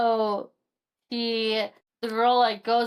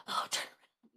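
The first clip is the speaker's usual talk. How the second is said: breathy unvoiced whisper, very soft; 12 dB quieter than usual. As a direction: lean in and whisper it like a secret. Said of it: "like, whisper".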